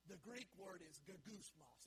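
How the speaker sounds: "gagusmos" said slowly, ga-GUS-mos; Greek word said slowly. Shown as a demonstration. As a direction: spell out "gagusmos" syllable by syllable. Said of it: "That's how you say the Greek word".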